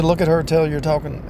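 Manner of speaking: high mock instruction; imitating counselor. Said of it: "He said".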